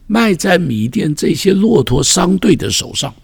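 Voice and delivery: put-on a rising, raw lament as the sold boy; anguished Joseph. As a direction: cry out Joseph's lost future. Preacher voices Joseph's lament.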